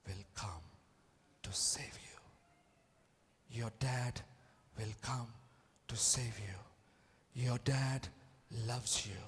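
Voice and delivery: soft, low whisper of reassurance; tender hush. Acted. Father whispering to his lost son that he will come. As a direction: comfort a frightened child quietly.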